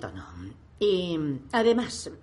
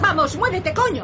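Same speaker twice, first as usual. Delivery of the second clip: much higher and louder, screaming at traffic; furious shout; 11 semitones higher, 6 dB louder than usual. Acted. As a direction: scream at the car in front. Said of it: "Deja de gritar".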